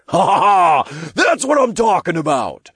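high, gleeful imp cackle; crowing, high-pitched celebration; cackling. A narrator's reading. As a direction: cackle in triumph. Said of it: "Todd cackled as he gave Ariel a high five".

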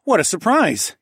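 high exclamation of mock amazement; playful surprise. A narrator's reading. Narrator indulging a toddler's news, playfully surprised. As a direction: act delighted for a small child.

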